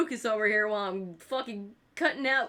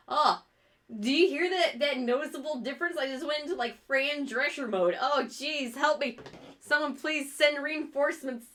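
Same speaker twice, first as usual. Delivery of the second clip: higher, congested voice; stuffed-up voice; 4 semitones higher than usual. Real, not acted. Streamer showing chat the stuffed-up high voice. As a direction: sound blocked up by a cold. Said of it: "my voice just went up".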